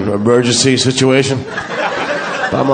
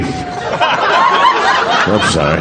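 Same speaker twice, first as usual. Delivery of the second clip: laughing apology; 4 semitones lower, much slower than usual. Real, not acted.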